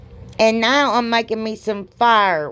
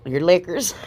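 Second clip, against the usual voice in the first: laughing at slip. Real, not acted.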